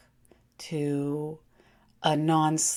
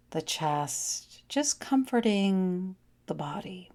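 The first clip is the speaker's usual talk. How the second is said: guided meditation. Acted. Guides a yoga nidra relaxation.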